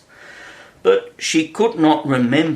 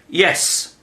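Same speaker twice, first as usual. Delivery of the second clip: quick higher-pitched call; restrained shouted answer; mild shout; 6 semitones higher than usual. A narrator's reading. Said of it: "shouted Alice".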